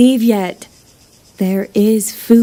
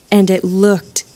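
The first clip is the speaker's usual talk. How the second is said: whispered; 3 semitones lower, slower than usual. Acted. Savoring thought of horse meat.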